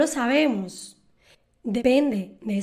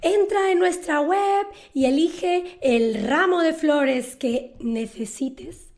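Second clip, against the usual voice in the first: mock advert read; cheerful commercial pitch; 2 semitones higher than usual. Shown as a demonstration. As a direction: sell it like a radio ad. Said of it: "que aparece en los anuncios".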